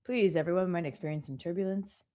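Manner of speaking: pilot voice. Retold or imitated. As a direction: play the captain calming passengers. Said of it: "he sounds like a pilot".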